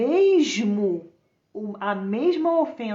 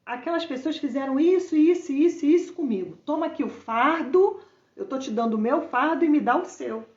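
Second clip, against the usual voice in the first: fervent plea; 4 semitones higher, 4 dB louder than usual. Acted. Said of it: "tá falando assim".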